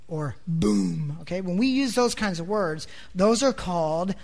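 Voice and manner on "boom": "boom" low with a lengthened oo; low, drawn-out "boom"; onomatopoeic boom. Shown as a demonstration. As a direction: sound out "boom" as a deep, resonant noise. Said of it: "The sound of the word is how you pronounce it".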